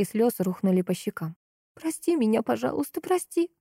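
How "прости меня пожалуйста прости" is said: tearful plea. Acted. Alla begging Kira's forgiveness.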